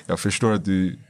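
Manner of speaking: restrained, measured apology; calmed-down apology. Retold or imitated. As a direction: re-enact making up after a row. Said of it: "när jag lugnat mig".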